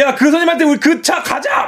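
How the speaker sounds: high-pitched rallying call to friends; mock rallying shout. Acting out students rallying to move car. (친구들 부추기듯 높게 외치는 흉내)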